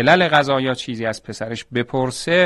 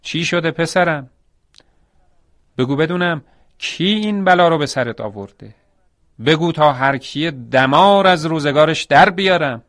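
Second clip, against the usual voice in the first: distraught father, pitched up and raised; loud wailing; 5 semitones higher, 4 dB louder than usual. Acted. Landlord demanding who hurt his son, wailing in distress. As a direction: cry out in alarm over your hurt son. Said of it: "آه و فغانش بلند بود".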